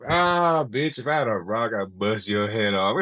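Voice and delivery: lightly voiced used-car salesman; Bernie Mac. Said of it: "when Bertie Mac".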